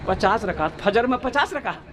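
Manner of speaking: acted disbelief, repeating the number; astonished question. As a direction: echo it back as a stunned question. Host astonished at the bluffed answer.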